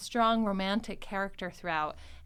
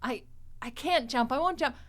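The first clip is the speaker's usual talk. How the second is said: panicked refusal; 4 semitones higher, slower than usual. Retold or imitated. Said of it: "as Brett Brickman says".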